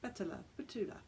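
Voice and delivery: Betula tried over in an Italian accent. Shown as a demonstration. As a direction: sound out Betula like an Italian would. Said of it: "how an Italian might say it".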